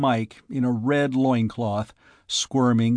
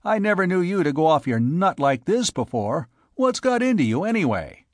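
high-pitched, exasperated scolding; angry bewilderment, pitch raised; angry, puzzled; 7 semitones higher, 3 dB louder than usual. A narrator's reading. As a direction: demand to know, angry and baffled. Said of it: "said angrily, between unease and puzzlement".

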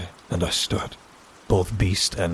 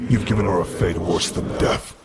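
put-on cold older man; 4 dB louder than usual. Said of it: "glared down at me with cold eyes".

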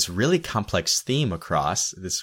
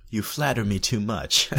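Bond villain; 2 semitones higher than usual. Real, not acted. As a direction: sound like a movie supervillain. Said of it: "You sounded kinda like a Bond villain".

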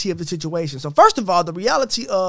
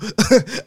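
evil mastermind laugh. Real, not acted. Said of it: "I do sound like an evil".

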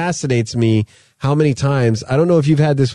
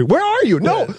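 put-on high, urgent kid voice; imitating Jacob. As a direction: plead like a panicking boy, pitched way up. Dad imitating son Jacob.

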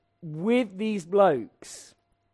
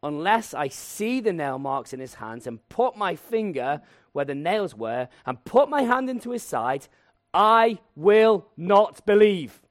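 slow, defiant, building louder; stubborn refusal; 6 dB louder than usual. Acted. Thomas refusing the disciples, slow and stubborn. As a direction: dig in, slow and loud at the end. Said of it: "he said to them".

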